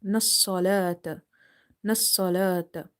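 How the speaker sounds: nassalata with a long la; stretched lam. Shown as a demonstration. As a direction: draw out the la in nassalata. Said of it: "Lam is stretched".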